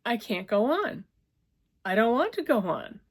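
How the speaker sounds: high, loud despairing wail; hysterical crying. A narrator's reading. Hysterical woman begging her lover, wailing. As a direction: break down completely. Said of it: "She was getting hysterical".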